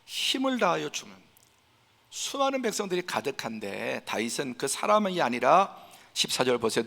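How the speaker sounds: ordinary talk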